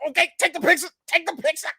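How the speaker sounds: high squealed mock urgency; comic high-pitched pleading; overwhelmed, squeezed plea. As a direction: squeal it as if caught in a crushing hug. Acts being squeezed during photo.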